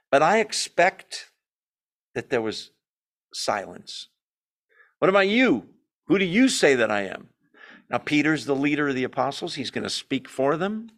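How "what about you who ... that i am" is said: emphatic. Retold or imitated.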